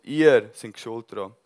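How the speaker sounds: loud, slow accusing preacher; loud accusation. Acted. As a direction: hammer it home. Stephanus accusing the Jews. (laut und anklagend)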